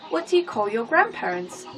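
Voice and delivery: usual speaking voice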